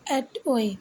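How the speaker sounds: "at ওয়ে" in two parts, at-way; pronunciation demo. Shown as a demonstration. Teacher giving learners the pronunciation, "at ওয়ে" as at-way. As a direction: model "at ওয়ে" clearly as at, then way. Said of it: "এইটার উচ্চারণ হচ্ছে".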